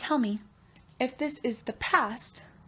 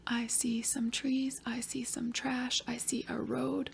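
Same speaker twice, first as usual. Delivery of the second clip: put-on soft whispered child's reply; whispered student answer; 2 semitones higher, 8 dB quieter than usual. Pretend pupil answering the teacher, whispered.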